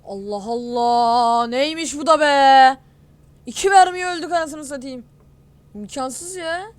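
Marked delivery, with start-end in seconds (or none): 0.0-5.0 loud, drawn-out, slow "Allah Allah" then shouting; real rage at the game, stretched and loud; exasperated yell. Real, not acted. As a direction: bellow in furious disbelief. Killed by suspected cheater.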